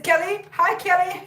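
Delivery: high pet voice. Retold or imitated. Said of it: "He says".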